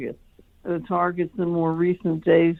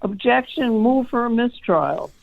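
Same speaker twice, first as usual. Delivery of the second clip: mild mock courtroom yell, pitched up; retold yell; 6 semitones higher than usual. Lawyer recounting her objection in court, mildly imitated yell. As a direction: call it out higher without real volume. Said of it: "I just yelled".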